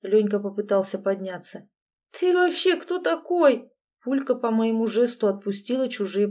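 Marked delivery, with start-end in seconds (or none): 0.0-3.7 startled. A narrator's reading. Ex-husband knocked down, surprised and indignant. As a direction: bristle in surprise.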